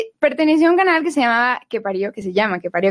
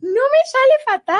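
Spanish accent attempt; 11 semitones higher than usual. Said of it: "siempre intentan hacer el acento español".

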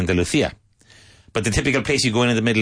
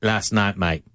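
Cockney; much slower than usual. Retold or imitated. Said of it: "They'll say".

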